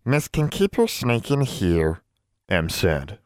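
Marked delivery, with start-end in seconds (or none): 0.0-2.0 high, slow elf voice; small elf offering kindly; house elf voice. Acted.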